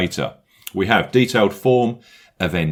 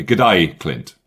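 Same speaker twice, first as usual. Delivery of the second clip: mock Aussie greeting; bad Australian accent; 2 semitones lower than usual. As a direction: greet him in a badly faked Australian accent. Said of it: "opportunity to do a bad accent".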